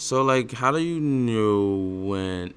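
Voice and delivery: each word dragged out slow and mechanical; slow robotic hearing. Shown as a demonstration. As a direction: say it like a warped, slowed-down recording. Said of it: "started to sound slow and robotic-y".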